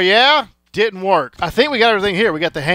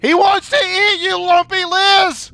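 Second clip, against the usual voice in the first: high, loud dramatic warning; hammed-up dire warning; 4 semitones higher, 3 dB louder than usual. Warning a character about Rod.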